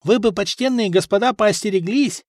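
put-on high-pitched fearful servant boy; anxious boyish warning, pitched high; timid. A narrator's reading. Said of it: "пугливо сказал парнишка-слуга".

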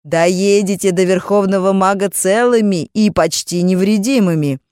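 loud mocking call; taunting call. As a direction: jeer at the runaways. Mages taunting in pursuit.

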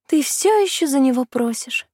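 чуть выше, лёгкий намёк на колдунью; спокойно удивляйся её упрямству; колдунья, слегка. Acted. (колдунья качает головой, говоря с Кисаной)

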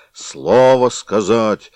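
loud, very slow roar; slow loud mock roar; bear roar. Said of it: "ревнул медведь".

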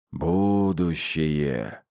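seance medium. Acted. Медиум в трансе называет карту.

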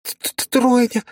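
very high, slow stammer into a cry; horrified stutter. A narrator's reading. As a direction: choke on the word in terror. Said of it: "Полина была в ужасе".

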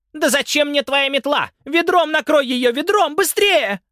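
очень высоко и громко; торопит мужа накрыть мышь; истеричный крик. A narrator's reading. Жена кричит на мужа. (жена истерично торопит мужа)

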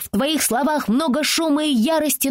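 put-on a little girl showing off big words; child quoting grandly. Francie answering the teasing girl with a lofty child's voice. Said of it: "Фрэнси ответила на оскорбление".

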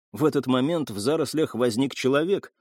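usual speaking voice

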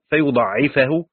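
فيضاعفه with the ع doubled, fa-yuḍaʿʿifahu; Ibn Amir's reading. Shown as a demonstration. Teacher reciting Ibn Amir's doubled reading of فيضاعفه. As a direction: stress the doubled ع in فيضاعفه and end in fahu. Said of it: "بالتشديد ونصب الفاء".

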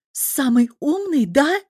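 loud, high, slow mocking jab; angry sarcasm. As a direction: sneer it at the clever husband. Разъярённая жена отчитывает мужа. (злой сарказм, громко)

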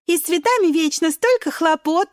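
lightly voiced cherries calling out; cherries calling together. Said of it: "в один голос кричат вишенки". (вишенки кричат хором)

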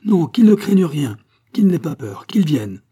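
hearty shouted assurances; crowd shouting. A narrator's reading. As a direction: call out reassurance from the crowd. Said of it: "cria-t-on de toutes parts".

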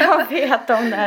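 slow, laughing through the words; drawn out with a laugh, mock-knowing; laughing catchphrase.

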